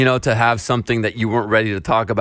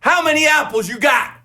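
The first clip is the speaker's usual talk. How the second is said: imitating a dad forcing patience; 7 semitones higher than usual. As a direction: lay it out step by step for a child. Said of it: "He goes and grabs five apples".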